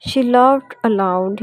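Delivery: each word drawn out slowly, "laughed" clear; very slow model reading. Shown as a demonstration. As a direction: dictate it very slowly for the class. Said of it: "इसमें laughed हमारे पास जो है वो". (बहुत धीरे-धीरे पढ़ाना)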